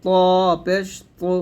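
ত পেশ তু with dark emphatic t; full-mouthed, heavy ত and তু; thick heavy tu. Shown as a demonstration. Teacher repeating for learners, thick tu. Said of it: "মোটা করে".

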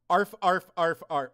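half-hearted barking arf; casual arf arf, not yet in character; first try at Goosebumps dog voice. Shown as a demonstration. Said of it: "Oh, I'm sorry, I didn't say it right".

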